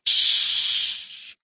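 soft breathy hush; whispered shh. Acted. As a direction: hush him softly. Doctor hushes again.

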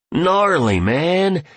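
high-pitched, admiring reaction; amazed, with pitch swooping high; impressed exclamation. A narrator's reading. Billionaire reacts to Picasso story.

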